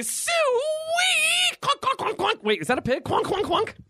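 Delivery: hammed-up zany radio host with sound effects; morning zoo DJ. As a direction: shout it like a wacky morning radio DJ. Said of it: "we are officially Morning Zoo Radio now".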